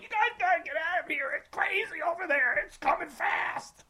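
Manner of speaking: high, loud imitation of a boat cop; hollered police warning. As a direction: yell an urgent warning across the water. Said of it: "police boat rolls up, and I was like".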